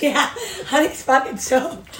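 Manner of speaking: put-on slow, drawn-out toddler line; mock toddler, laughing; imitating toddler. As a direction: savour it like the kid did. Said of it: "you just said it like that".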